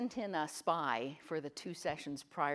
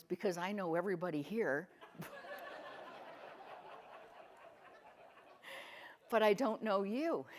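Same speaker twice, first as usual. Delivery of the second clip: laughing quote; 3 semitones higher than usual. Retold or imitated. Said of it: "And she goes".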